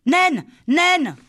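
high, loud panicked call; frightened calling. Acted. Lali calling Naine in terror after Jo falls, panicked. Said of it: "Lali appela, en grande frayeur".

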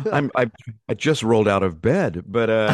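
just-woke-up morning voice. Real, not acted. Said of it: "this is my morning voice".

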